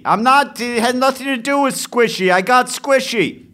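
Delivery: high, loud, indignant pushback; indignant high protest. Real, not acted. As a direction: defend yourself, voice shooting up. Defensive outburst in puzzle argument.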